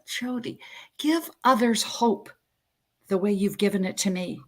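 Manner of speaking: mother's light Norwegian accent, gently imitated; measured words in a hint of Norwegian accent. Dying mother's last words to her daughter, light Norwegian accent. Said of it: "in this Norwegian accent".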